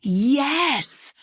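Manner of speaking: calling yes to the back of the room. Shown as a demonstration. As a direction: project it to those in the back. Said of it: "Let me say that again louder for those in the back".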